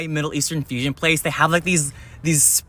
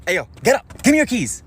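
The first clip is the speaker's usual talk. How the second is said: mock carjacker demand; 5 semitones higher than usual.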